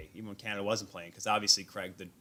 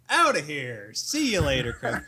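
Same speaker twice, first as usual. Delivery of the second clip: laughing exit; 4 semitones higher, 6 dB louder, slower than usual. Real, not acted. Escaping an awkward meeting.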